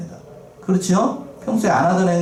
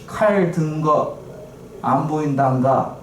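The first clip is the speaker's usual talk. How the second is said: slow, drawn-out Jeolla dialect line; much slower than usual. Retold or imitated. Preacher reading the cartoon donkey's Jeolla caption, slow. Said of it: "이게 전라도 버전인 것 같아요".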